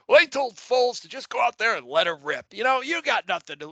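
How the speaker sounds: light announcer impression, pitched a bit up; Collinsworth. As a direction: lightly imitate an upbeat game commentator. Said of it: "that's my Collinsworth impression".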